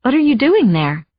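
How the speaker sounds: hiding the worry in her voice; anxious, held back. Acted. Questioning the housekeeper, masking her anxiety. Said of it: "trying not to sound anxious".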